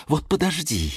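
threat held back at modest volume; contained threat. A narrator's reading. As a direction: warn a rival without shouting. Geranium's repeated threat, now low-key.

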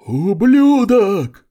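high, loud, dragged-out creature bellow; monstrous roar. A narrator's reading. Former witch hurls force and roars at him. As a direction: roar the insult. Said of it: "взревела бывшая ведьма".

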